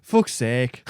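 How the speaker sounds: lightly put-on British curse; attempted British accent. Friend attempting a hard Scottish accent, lands on vague British. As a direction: try a rough British accent, not quite landing it. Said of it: "some type of English".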